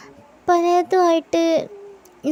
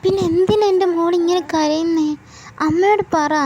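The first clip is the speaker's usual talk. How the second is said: pleading mother; 3 semitones higher, 4 dB louder than usual. Acted. Mother pleads with crying daughter.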